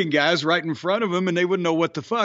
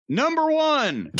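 drawn out, much higher, while deciphering; slow reading; 10 semitones higher, slower than usual. Real, not acted. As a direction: stretch it out like squinting at bad handwriting. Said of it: "as I'm trying to read my own writing".

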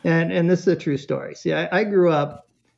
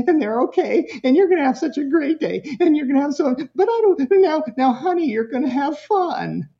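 anxious parent; 6 semitones higher, faster than usual. Retold or imitated. Guilty parent soothing the child at daycare, rising anxious pitch. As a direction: reassure the kid while getting more worked up. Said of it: "So the parent's saying".

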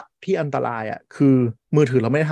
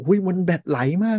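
higher-pitched mock dismay; a fussy, raised-pitch imitation; mock alarmed user; 6 semitones higher than usual. Voicing panicked users' complaint.

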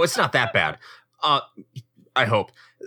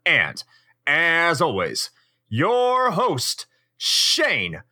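showy hype-man introduction with swooping pitch; podcast announcer; 4 semitones higher, slower than usual. Acted. Host welcoming retro gamers to the podcast, hyped-up announcer. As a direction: announce it big, stretching out the key names.

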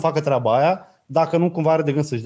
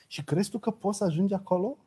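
softer, mocking put-down; sneering teacher; 3 semitones higher, 7 dB quieter than usual. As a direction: sneer it like an old viper. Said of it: "Și a zis". (dispreț ironic, mai încet)

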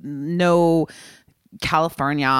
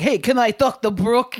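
casual caller; 6 semitones higher, 4 dB louder than usual. Retold or imitated. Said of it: "They're not like".

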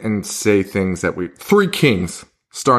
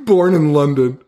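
lightly mocking British accent, slightly raised; British accent impression; 4 semitones higher than usual. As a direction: put on a British accent for a joke. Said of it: "a British accent".

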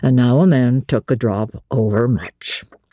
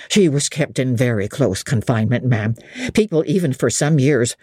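a lightly voiced old host confiding gossip; innkeeper. Innkeeper voice read by narrator.

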